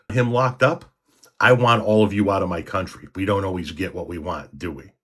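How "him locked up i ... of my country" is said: higher, louder parody of an angry supporter; mock MAGA voice. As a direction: sneer their demands back at them. Mocking MAGA supporters' demands.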